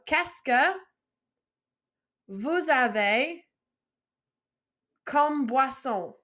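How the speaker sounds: Qu'est-ce que, vous avez, comme boisson with long pauses between; slow chunked drill, pausing after each part; phrase split into parts. Shown as a demonstration. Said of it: "first line by itself".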